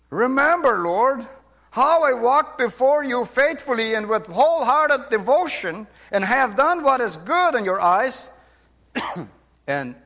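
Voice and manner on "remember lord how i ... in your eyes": raised, louder voice, praying out to the Lord; earnest prayer. Acted. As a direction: read it as an urgent plea to God. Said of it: "And he prayed to the Lord".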